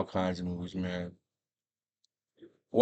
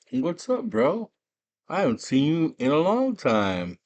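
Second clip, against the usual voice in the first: excited greeting; 7 semitones higher, 4 dB louder than usual. Retold or imitated. Guy greets old friend.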